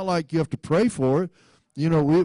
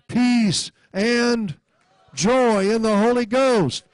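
emphatic preaching; 4 semitones higher than usual. Real, not acted. Preaches with force, quoting Romans.

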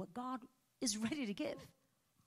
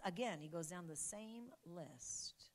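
quick soft whisper, slower; whispered aside; 5 dB quieter, slower than usual. Real, not acted. Preacher's side remark to the church, whispered. Aside between quoted lines.

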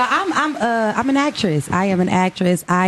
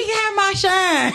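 high laughing cry, slowed; high laughing protest; laughing outburst; 9 semitones higher, slower than usual. Real, not acted. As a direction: squeal it through laughter. Laughing outburst about age.

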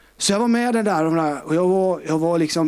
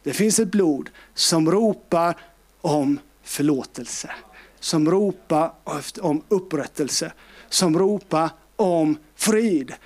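slow preaching litany; slower than usual. Acted.

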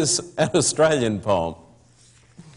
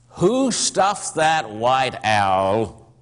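slow, drawn-out blunt question; young man blurting; much slower than usual. Acted. Young man in the barber shop, slow blunt question. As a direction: let the question hang in the shop.

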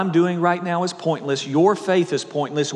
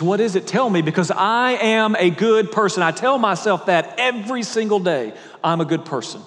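put-on higher, louder, insistent young man; urgent demand; 5 semitones higher, 3 dB louder than usual. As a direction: beg for the answer, pressing hard. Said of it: "He says".

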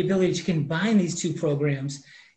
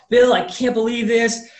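imitating Ralph's excited disbelief, higher and louder; excited quote; 5 semitones higher, 6 dB louder than usual. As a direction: replay his thrilled reaction to the news. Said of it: "He's so excited".

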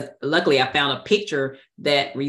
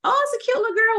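dismissive; much faster than usual. Retold or imitated. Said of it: "and I was like".

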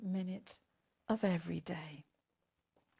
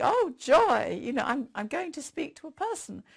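sarcastic burst of joy, louder on oh; mock delight; 4 semitones higher, 7 dB louder than usual. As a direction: fake excitement at finally getting through.

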